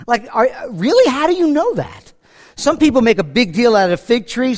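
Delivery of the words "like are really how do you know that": higher, incredulous how do you know that; stunned disbelief, pitched up; astonished. Retold or imitated. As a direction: Nathanael amazed that Jesus knows him. Nathanael astonished at Jesus.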